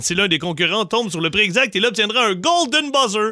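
upbeat host announcing the game; game show host. Acted.

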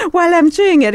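laughing through the words. Real, not acted. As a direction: giggle while speaking. Host laughs mid-sentence.

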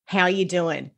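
slow, clear demo of an Aussie greeting; said slowly. Shown as a demonstration. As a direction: spell it out gently for a child to copy. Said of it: "I'll say it slowly".

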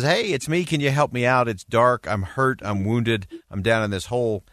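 starts high and pleading, then eases back toward normal; a mild mock call up out of a hole that fades down; retold call up. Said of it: "he calls up and says".

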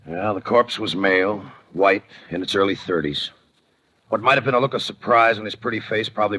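dry, musing voice-over; noir narration. A narrator's reading. Detective describing the body to the listener, dry voice-over. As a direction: size up the corpse coolly in the telling.

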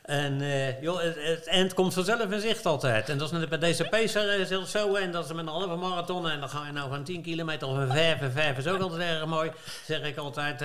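put-on loud Hague-accent radio sign-off; Haags accent. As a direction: boom it out like a Hague announcer. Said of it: "met een mooi Haags accent".

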